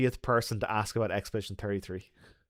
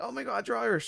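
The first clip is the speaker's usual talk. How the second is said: high, softer mock squeal; retold excitement; 11 semitones higher, 4 dB quieter, faster than usual. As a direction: re-enact delighted surprise at compatriots. Retold delighted meeting, repeated.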